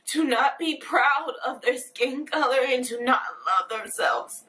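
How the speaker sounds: real tears creeping into the words, voice starting to crack; fighting back tears as she speaks; tearful. Real, not acted. Speaking to viewers about black kids, tearfully holding back crying. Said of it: "I'm sorry for crying".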